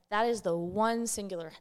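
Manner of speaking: throat catching mid-sentence; choking. Real, not acted. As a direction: voice catching on a choke. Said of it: "choking on my own throat".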